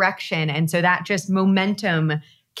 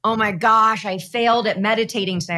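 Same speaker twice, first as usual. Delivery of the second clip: mock complaining. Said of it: "people that are coming to me to talk to me are complaining".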